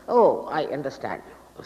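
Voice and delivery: whispered, slow mock assent; hushed imitation of a follower's assurance; mock reassurance. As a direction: breathe it out like an eager nodding listener. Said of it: "a sort of an assurance".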